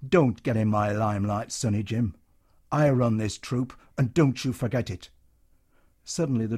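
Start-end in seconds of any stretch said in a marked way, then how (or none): 0.1-5.1 hectoring. Acted. Troop leader warning a soldier, hectoring. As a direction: lay down the law to the lad. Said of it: "The hectoring voice went on".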